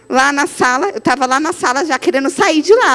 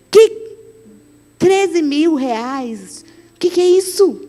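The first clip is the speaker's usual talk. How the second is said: shocked husband; 2 semitones higher, slower than usual. Retold or imitated.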